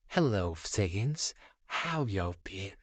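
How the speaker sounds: slow, lightly voiced villain; villain's greeting. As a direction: greet them slowly, drawing out the words. Villain arrives and greets the Saiyans.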